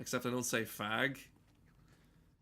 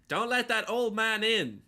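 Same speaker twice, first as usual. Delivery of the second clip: much higher and louder put-on voice; George Miller doing Morgan Freeman; 9 semitones higher, 7 dB louder than usual. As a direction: belt it out high like a comedian doing an old man. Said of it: "that's my George Miller does Morgan Freeman impression".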